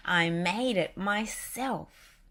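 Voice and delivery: slow, lightly voiced Goofy. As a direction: drawl it like Goofy. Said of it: "Goofy answered".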